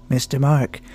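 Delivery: a hint of a concerned mountain guide; lightly voiced Sherpa guide. Imagined Sherpa guide warning Mark.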